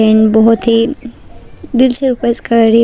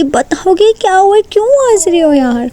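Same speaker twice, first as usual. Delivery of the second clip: annoyed demand; 7 semitones higher than usual. A narrator's reading. Neha angry, sitting on Ishika.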